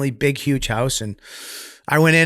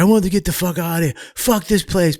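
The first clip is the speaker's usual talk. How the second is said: higher-pitched, fast imitation of an outburst; kid flipping out; 5 semitones higher than usual. Retelling a new kid demanding to leave, flipping out. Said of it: "this kid flipping out".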